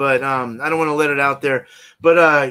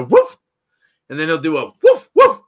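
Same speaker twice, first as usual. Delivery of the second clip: imitating dog woofs; 6 dB louder than usual. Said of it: "a bark code".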